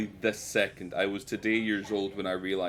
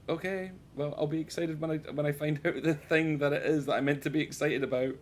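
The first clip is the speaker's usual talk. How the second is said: high-pitched, mock-reasonable retort; reply in a raised pitch, playfully exasperated; 6 semitones higher than usual. Retells exasperated reply to wife.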